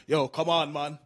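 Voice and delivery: pleading haggler, pushing for a deal; dad's bargaining speech. Retold or imitated. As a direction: wheedle the shopkeeper like a bargain-hunting dad. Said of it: "He's got this speech he does all the time".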